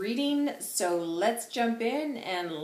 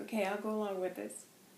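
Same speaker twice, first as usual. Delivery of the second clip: normal talking voice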